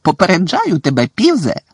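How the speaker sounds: stern warning. A narrator's reading. Professor warns Peeves before fetching the headmaster, stern. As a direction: warn him sharply.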